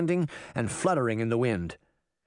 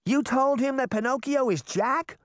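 high, astonished question; high-pitched amazement; incredulous question; 11 semitones higher than usual. A narrator's reading. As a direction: ask it high, in disbelief. Girl reacts to Puck's trick.

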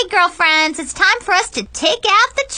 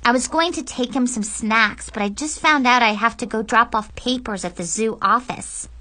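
put-on higher girlish voice, covering up; over-casual, pitched-up pleading; nervous excuse; 5 semitones higher than usual. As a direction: ask a favour while fibbing lightly. Girl makes an excuse to friends.

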